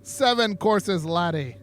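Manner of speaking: playful attempt at an Irish accent that lands Scottish; jokey Scottish lilt; Scotch accent. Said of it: "That's the Scotch".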